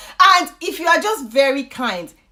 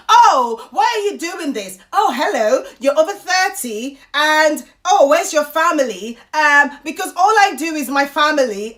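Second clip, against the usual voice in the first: mock complaining women; 3 semitones higher, 3 dB louder than usual. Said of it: "They scream their loudest and they're like".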